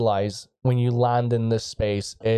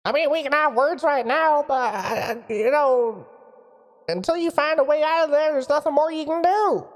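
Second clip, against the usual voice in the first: high, booming wizard from afar; a surprised wizard calling into the device; booming mage voice. Acted. Mage voice continues.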